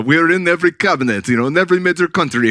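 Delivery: put-on poor, hammy German accent; mock a German official in a rough German accent. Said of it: "going through with the German accent".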